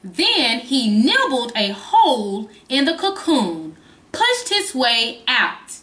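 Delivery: slow storybook reading; reading to a toddler. Acted. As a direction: read it to little kids. Reads the book's ending.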